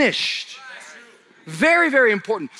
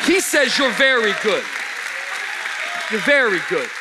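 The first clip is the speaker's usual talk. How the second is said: preaching at full force; 5 semitones higher than usual. Acted. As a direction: lift the room to praise.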